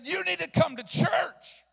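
urgent call. Retold or imitated. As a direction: press her to come to church. Preacher urging the driver.

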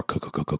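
low, soft stuttering co-co-co like a rough engine; choppy engine rattle made with the mouth; imitated co-co sound effect. Shown as a demonstration. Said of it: "it was more cacophonous".

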